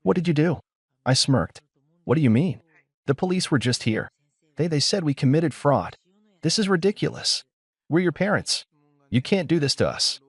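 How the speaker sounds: a hint of a panicked mother shrieking; mild shriek. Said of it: "she shrieked the moment I answered".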